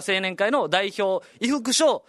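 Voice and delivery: lightly voiced announcer, quick at the end; mock event announcer; event announcer call. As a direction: call the competitor up to stand by. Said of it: "みたいな".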